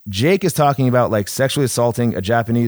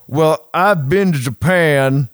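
wrestling promo; 5 semitones higher, 5 dB louder, much slower than usual. Retold or imitated. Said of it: "tries to cut a promo".

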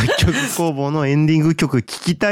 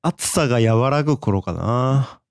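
poetic; slower than usual. Pretend. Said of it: "ポエム読みよ".

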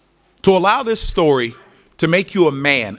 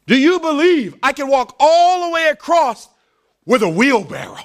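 showman calling out; 10 semitones higher than usual. Acted. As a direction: call it down to the crowd. Walker calls to crowd again.

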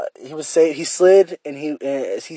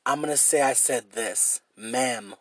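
softer, voicing his own thoughts; inner voice, muttered; 4 semitones lower, 10 dB quieter than usual. Replaying his own thoughts to viewers, in a soft mutter. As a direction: talk it through under the breath. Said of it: "this is how my brain worked".

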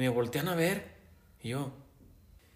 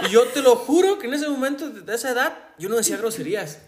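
louder, higher, laughing through it; laughing protest; 7 semitones higher, 9 dB louder than usual. Real, not acted. Telling a friend he never swore as a kid, laughing and louder. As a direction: swear you were innocent while laughing.

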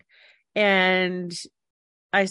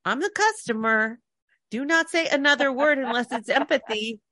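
higher, insistent customer; mock-indignant, pitched up; indignant inner voice; 6 semitones higher than usual. Customer silently ordering the guy to show empathy, mock-indignant. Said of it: "a point where I was thinking".

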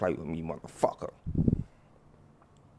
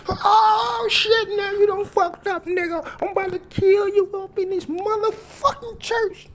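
high, loud shrieking threats; screaming rage; 9 dB louder, slower than usual. Acted. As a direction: scream it like you've lost it. Church fight erupts, screaming threats.

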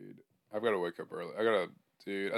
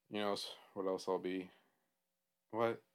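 losing it; 2 semitones lower, 5 dB quieter than usual. Real, not acted. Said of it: "absolutely losing it".

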